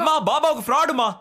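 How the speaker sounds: exasperated laughing insistence. Acted. Son insists again, laughing.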